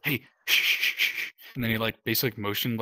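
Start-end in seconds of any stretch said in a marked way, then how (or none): 0.1-1.3 whispered hushing; shushing whisper. Retold or imitated. Watch tender shushing the detainees in a whisper. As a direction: hush them in a whisper. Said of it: "he was like".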